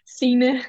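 "Sina" repeated carefully in the native way; correct native pronunciation. Shown as a demonstration. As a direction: model the name "Sina" for a learner. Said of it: "say it one more time".

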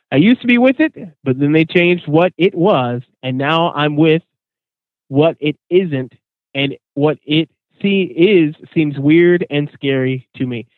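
a touch of a muddled grandpa, slowing near the end; hint of Grandpa Simpson. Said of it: "which I will say once again".

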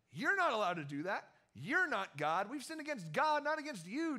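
mock scolding from the teachers of the law; frustrated teachers. Teachers of the law scolding Jesus, hammed-up indignant protest. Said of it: "they're getting frustrated".

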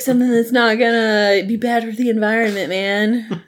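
lightly voiced stoner hippie. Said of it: "That was my hippie voice".

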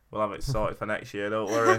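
pushy promise ending in a chuckle; aggressive. Real, not acted. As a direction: come on too strong, then laugh. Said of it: "That sounded so aggressive".

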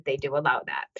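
hushed, conspiratorial whisper; breathy whispered aside. Real, not acted. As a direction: lean in and whisper it like a secret. Confiding an aside to listeners.

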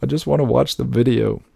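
high frustrated whine; exasperated. Retold or imitated. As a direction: plead in frustration. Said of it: "you're like".

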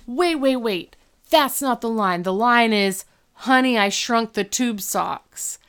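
mildly hammed-up protest at a botched line; mock freak-out. Eric objecting to Corey's wrong line, mock freak-out. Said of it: "freaks out".

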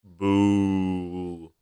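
flat fake boo; mock boo sound. Shown as a demonstration. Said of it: "press my boo button".

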